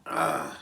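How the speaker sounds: short, low acted "ah"; re-enacted pain groan. Reliving the pain in the lobby, low mock groan. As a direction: groan as if the pain just hit.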